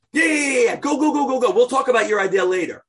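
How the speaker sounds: brushing him off loudly, fast at the end; impatient shooing. Acted. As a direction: go go go, no time for you. King hurries Haman out.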